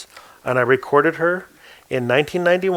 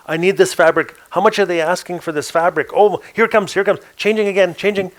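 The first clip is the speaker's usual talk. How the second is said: higher, delighted gushing over the walls; excited gushing; 5 semitones higher than usual. Retold or imitated. Maria gushing to the twins about the shifting walls, delighted. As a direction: marvel and gush like a woman in awe. Maria voiced marvelling at heaven.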